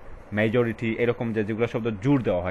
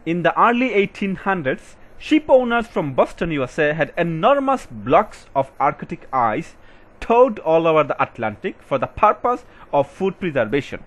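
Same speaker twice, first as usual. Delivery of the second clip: louder, slow, word-by-word reading aloud; slow passage reading; 6 semitones higher, 7 dB louder, much slower than usual. Acted. Teacher reading an IELTS passage to students, slow and loud. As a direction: read the passage out so students can follow every word.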